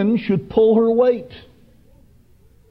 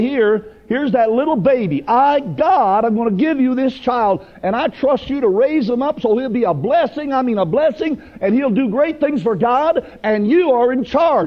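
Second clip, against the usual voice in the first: higher, earnest preacher voicing God; God entrusting a baby; 5 semitones higher than usual. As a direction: hand over a charge with fervour. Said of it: "God Almighty said when He gave you".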